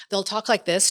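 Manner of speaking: lightly drawn-out Americanized accent with an Arab lick. Shown as a demonstration. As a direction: demonstrate a slightly Arab-tinged American accent, slowly. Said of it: "Americanized accent that has".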